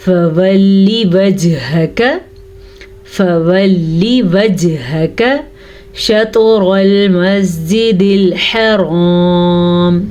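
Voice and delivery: slow recitation, echoing bounce on जीम; recitation with qalqala. Shown as a demonstration. Teacher reciting slowly, then explaining qalqala. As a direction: bounce the stopped जीम and त्वा. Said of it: "जीम पे कलकला हो रहा है".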